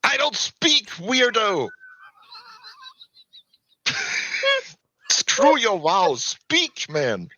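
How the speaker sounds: exasperated demand. Acted. Player to a cleric who cannot talk, exasperated demand. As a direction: push SPEAK out high, losing patience.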